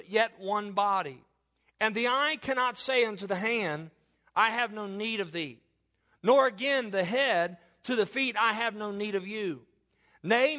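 measured preacher's reading voice; scripture reading. Acted. Preacher reading Corinthians to the congregation, measured and solemn. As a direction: read the passage out to the church. Reads First Corinthians aloud.

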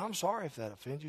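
quiet, kind and humble; soft gracious apology. Retold or imitated. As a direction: apologize gently to the angry driver. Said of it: "Very kind, gracious".

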